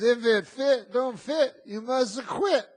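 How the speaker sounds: high, loud mocking chant of the rhyme; mock sing-song rhyme. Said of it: "She goes".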